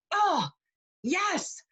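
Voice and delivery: high-pitched retold "aha" moment; sudden realisation. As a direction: let it dawn on you, voice swooping high. Retold sudden realisation at husband's question.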